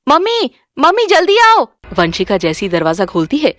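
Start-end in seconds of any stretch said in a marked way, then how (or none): 0.1-1.6 high calling to mother; excited shout for mum. Acted. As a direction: call urgently toward the house. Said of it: "वो चिल्लाकर अपनी माँ को बुलाती है".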